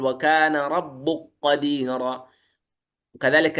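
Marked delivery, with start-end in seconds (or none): 0.0-2.3 slow وكان ربك قديرا, the kaf of ربك fused into the qaf, rabbuqqadira; merged kaf into qaf. Shown as a demonstration. Teacher reciting the verse slowly to show the merge. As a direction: slowly let the k of ربك become a doubled q. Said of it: "يقول".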